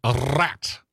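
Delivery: stern commenter voice. Retold or imitated. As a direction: lecture her like a know-it-all commenter. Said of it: "comments that said".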